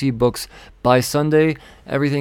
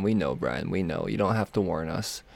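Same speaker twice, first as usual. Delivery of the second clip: lower, softer mock exasperation; mocking readers; 6 semitones lower, 6 dB quieter than usual. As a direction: answer as bored readers.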